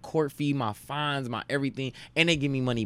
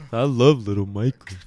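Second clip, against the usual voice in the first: laughing quote; 4 semitones lower, 3 dB louder than usual. Retold or imitated. Quoting movie while laughing.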